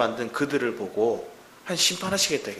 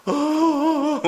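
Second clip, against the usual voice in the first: high mock whimpering sobs; imitated child sobbing; 12 semitones higher, much slower than usual. Father retelling his daughter crying after the fall, high sobs. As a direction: whimper like a hurt toddler. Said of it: "우는 거예요".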